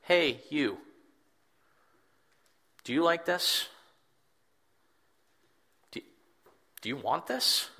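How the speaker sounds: lightly voiced Jesus, coaxing the weary listener; Jesus, tender invitation. Jesus turns to the reader, gently inviting them to come. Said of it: "Jesus looks up from the story and out of his acting and goes".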